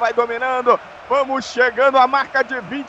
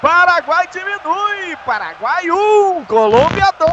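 excited goal commentary; 3 semitones higher than usual. Real, not acted. Still celebrating the goal.

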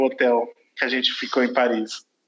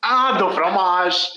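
mock French; much slower than usual. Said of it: "Todo mundo falava isso".

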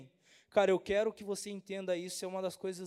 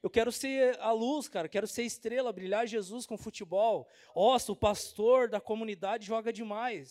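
excited retort. Retold or imitated. Pastor answering doubters, proud and excited. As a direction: proclaim it like a star. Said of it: "Eu falei".

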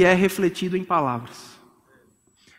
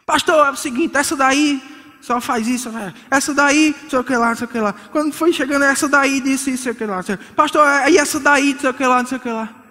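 mock spouse complaining to the pastor; 4 semitones higher than usual. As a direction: whine the accusations like a spouse telling on the other. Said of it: "spouses complaining to pastor".

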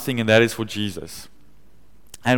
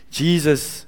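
hushed prayer; 2 semitones higher, 3 dB quieter than usual. Retold or imitated. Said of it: "and I just said".

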